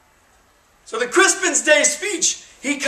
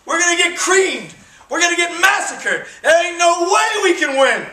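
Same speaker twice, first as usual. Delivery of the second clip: panicked soldiers; 5 semitones higher than usual. Retold or imitated. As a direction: act out the soldiers' mock despair. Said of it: "And they're like".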